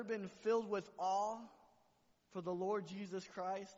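loud, high preaching cry; rousing sermon voice; preaching at full force. Acted. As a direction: lift it up to the church.

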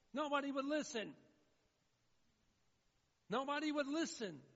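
loud, high acted lament; preacher acting out a despairing shout; anguished outcry. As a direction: cry it out to the whole room, falling at the end. Acted cry of the damned in hell.

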